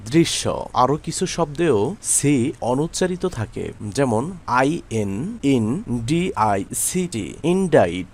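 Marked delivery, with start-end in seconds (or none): 4.5-7.3 slow letter-by-letter spelling. Shown as a demonstration. Spelling the word out for learners. 7.4-8.1 ইনডাইট with no k before the final t; silent C. Shown as a demonstration. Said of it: "সি অনুচ্চারিত আছে".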